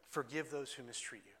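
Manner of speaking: softly voiced, a touch hushed; mock whisper. Preacher voicing God's counsel amid bitter messages, lightly hushed. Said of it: "He's whispering".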